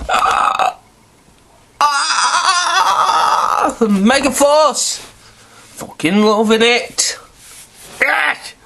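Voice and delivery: high squealing delight, slow and stretched; thrilled shout of fan joy; fanboy excitement. Real, not acted. Fan excitement at Power Rangers.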